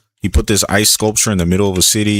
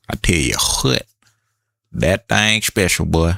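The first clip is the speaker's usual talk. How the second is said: light country accent. Shown as a demonstration. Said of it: "I had to hit my country accent".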